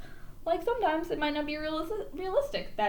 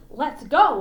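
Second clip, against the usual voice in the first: loud honked reply; honking goose; 8 dB louder than usual. A narrator's reading. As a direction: honk it out like a goose. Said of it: "honked Goosey Lucy".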